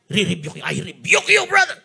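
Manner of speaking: lightly churchy, rising at the end; mock a pious believer rebuking; pious rebuke. Shown as a demonstration. Christian piously rebuking a brother, lightly mocked, rising tone. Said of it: "piousness dyan sa salitang rebuke".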